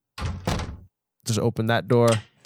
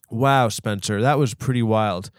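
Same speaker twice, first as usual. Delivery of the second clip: normal talking voice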